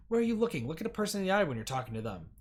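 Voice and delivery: sharp, loud reprimand; a stern secretary scolding. Acted. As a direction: snap at her to look up. Woman scolds the kneeling interviewee.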